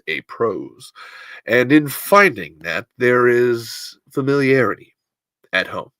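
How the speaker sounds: measured mid-Atlantic accent, drawn-out phrases. Shown as a demonstration. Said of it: "give me some Mid-Atlantic".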